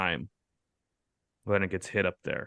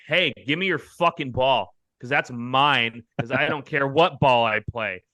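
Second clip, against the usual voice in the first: higher, mock-aggressive demand; imagined confrontation; 4 semitones higher than usual. Imagining rolling up on her for the ball, mock aggression. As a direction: play at demanding the ball back.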